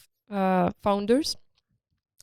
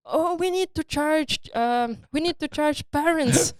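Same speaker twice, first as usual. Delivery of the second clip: higher-pitched imitation of an excited girl's cry; raised-pitch, mild mock yell; mock scream; 5 semitones higher than usual. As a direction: mimic a girl crying out, without really yelling. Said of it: "one of the girls was screaming".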